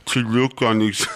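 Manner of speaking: lightly theatrical, poetic delivery; dramatic recital voice. Pretend. Guest recites lines in a mock dramatic voice. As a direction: recite it like a brooding poet. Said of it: "that's a cool voice".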